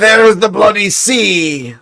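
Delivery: lightly put-on Scottish accent pointing at the map; mock Scottish accent. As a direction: play a grumpy Scotsman in a Scottish accent, slowly. Mocking Scots over the map.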